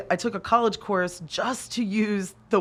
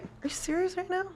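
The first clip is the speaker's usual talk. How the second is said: higher, incredulous instructor; mock incredulous; 11 semitones higher, 7 dB quieter than usual. Instructor stunned by the student's answer, high incredulity. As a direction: play the baffled instructor.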